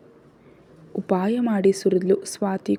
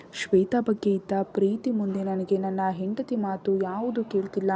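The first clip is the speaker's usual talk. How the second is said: much softer, grieving narration; hushed sorrow; 6 dB quieter than usual. A narrator's reading. Son confessing guilt to mother, softly grieving. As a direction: let the guilt sink in quietly.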